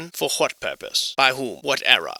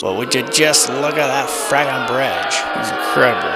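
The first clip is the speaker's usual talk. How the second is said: hammed-up adventurer calling out in a put-on voice; mock explorer shout; 4 dB louder than usual. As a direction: boom it out like a cartoon explorer. Mock explorer exclaiming at bridge.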